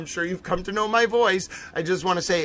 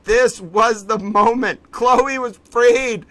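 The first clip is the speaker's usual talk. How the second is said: slow, high, loud proclamation; grand announcer; 4 semitones higher, 5 dB louder, slower than usual. Pretend.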